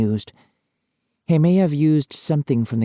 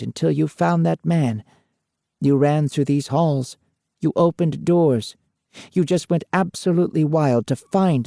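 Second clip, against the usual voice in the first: lightly voiced stern medium, slightly higher; a hint of a medium confronting an evil spirit; medium addressing a spirit; 4 semitones higher than usual. Lorraine confronting the violent spirit, lightly stern.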